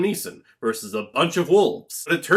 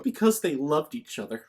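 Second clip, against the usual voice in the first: ordinary talk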